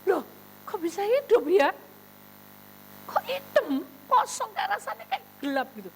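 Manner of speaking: high, loud baffled exclamation; bewildered. Retold or imitated. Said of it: "Kan bingung".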